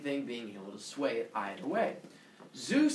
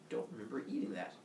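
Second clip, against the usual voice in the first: bewildered look; 4 semitones lower, 9 dB quieter, faster than usual. Acted. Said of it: "kind of look".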